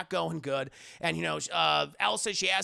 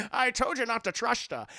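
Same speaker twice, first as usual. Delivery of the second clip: slushy-s father, half laughing; Sean Connery; 3 semitones higher than usual. Retold or imitated. Father says told-you-so, laughing impression. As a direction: tease it with s as sh.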